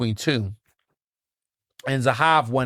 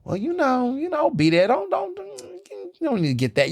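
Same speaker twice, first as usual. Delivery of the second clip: very high, coy, fake-casual; mock innocent. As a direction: pretend not to care while hiding a surprise. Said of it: "I said".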